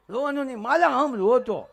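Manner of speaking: high, loud cutesy scolding; baby talk. Pretend. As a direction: draw out the last words in high baby-talk. Baby talk to a crying child.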